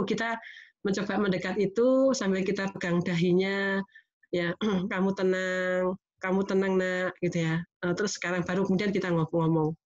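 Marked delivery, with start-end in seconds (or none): 4.9-7.2 soothing. Retold or imitated. Mother calming tantrum child.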